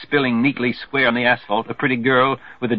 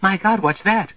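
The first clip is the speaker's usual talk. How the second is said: shriek; 9 semitones higher than usual. Acted.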